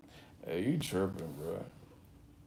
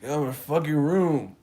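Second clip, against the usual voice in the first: mild mock yell; 4 semitones higher, 3 dB louder than usual. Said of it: "he talking hella regular".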